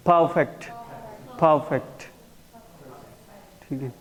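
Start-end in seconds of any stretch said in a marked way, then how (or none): 0.1-2.0 परफेक्ट with first syllable as an open फा, no r; pronunciation demo. Shown as a demonstration. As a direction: model परफेक्ट as "pha-fekt", twice, separately. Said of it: "उसको फा pronounce करता हूँ".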